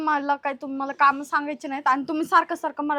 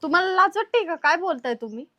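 raised-pitch indignant challenge; indignant rebuke. Acted. Sister-in-law rebuking brother-in-law's advances, indignant. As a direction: scold him for shamelessness.

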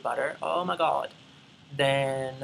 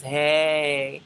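a light, slightly louder take on her tagline greeting; imitating Hey Paris; 5 dB louder than usual. Vlogger quoting a YouTuber's tagline, lightly imitated. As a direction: toss out her catchphrase like she does. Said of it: "her little tagline is".

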